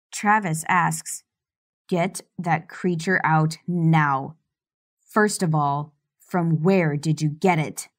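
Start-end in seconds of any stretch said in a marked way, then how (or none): 1.9-7.9 cold anger. Acted. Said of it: "I glare at Travis".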